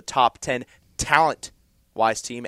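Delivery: slow down and lean on "talent"; "talent" set apart and punched; stress on talent. Real, not acted. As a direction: land hard on the word "talent". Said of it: "emphasis on the talent".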